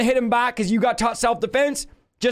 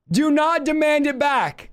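slow, higher, disbelieving read; incredulous reading; 4 semitones higher, slower than usual. Shown as a demonstration. Preacher finishing the verse for the crowd, slow and incredulous. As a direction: say it like it can't possibly be true. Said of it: "I can't even read this with a straight face".

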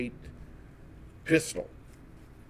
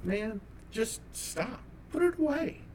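pleading; 8 semitones higher, 5 dB quieter than usual. Retold or imitated. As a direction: beg him to stop, voice rising up high. Begging friend to put gun away.

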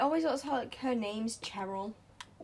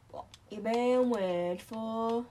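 slow, louder teasing drawl; 6 dB louder, slower than usual. Real, not acted. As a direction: drag it out to tease. Repeats question slower, louder.

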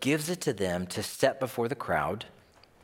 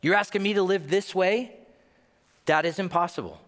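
higher-pitched, incredulous protest; protesting prayer; 6 semitones higher than usual. Acted. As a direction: push back at God in disbelief. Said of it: "your prayers are just like that".

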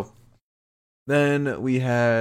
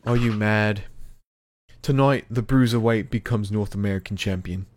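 promo challenge in an attempted British accent; lightly put-on British accent, Pete Dunne's. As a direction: declare it with Pete's British accent. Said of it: "Mark braved Cameron's and Pete's accent".

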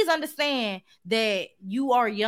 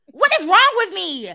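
dizzy and clumsy; 7 semitones higher, 8 dB louder than usual. Acted. Mom acting baffled by clumsiness.

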